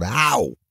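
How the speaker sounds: drawn-out cry of pain; narrated yelp, not very loud. A narrator's reading. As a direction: yelp as tape is ripped off. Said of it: "I followed with a loud".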